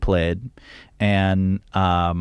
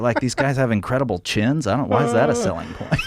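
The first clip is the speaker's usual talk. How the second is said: baffled exec laughing through the line; mock the misheard pitch; confused executive; 3 semitones higher, faster than usual. American label exec puzzled about chins, half laughing. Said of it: "walked out of ... meeting go".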